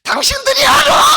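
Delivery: high, cheeky puppet voice; ventriloquist puppet voice. Acted. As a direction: tease the crowd as a high little puppet. Puppet teases the congregation. (높고 장난스러운 인형 목소리)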